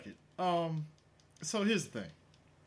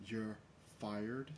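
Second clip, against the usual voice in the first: mock tune; 5 semitones lower, 12 dB quieter than usual. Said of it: "to the tune of".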